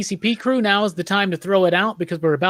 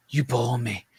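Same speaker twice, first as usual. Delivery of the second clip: Udo Kier; 5 semitones lower, 8 dB quieter, slower than usual. Acted. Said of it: "the guy that's like".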